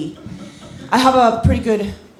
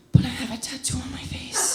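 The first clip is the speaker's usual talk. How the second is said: high, thin mock cry; strained high outburst; 4 semitones higher, 5 dB quieter than usual. Jilted girlfriend explaining the breakup, strained high mock cry. Punchline repeated as acted heartbroken outburst.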